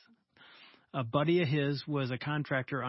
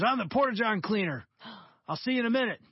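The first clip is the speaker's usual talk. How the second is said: bright, quick, louder cheerful worker; upbeat cleaner; 7 semitones higher, 4 dB louder than usual. Retold or imitated. Cheerful porta-john cleaner greets the builder, fast and eager. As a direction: announce yourself like a happy porta-john cleaner. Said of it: "He goes".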